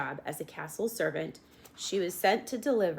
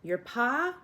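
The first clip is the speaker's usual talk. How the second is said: shouted; 6 semitones higher, 3 dB louder than usual. A narrator's reading. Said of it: "shouted the soldier".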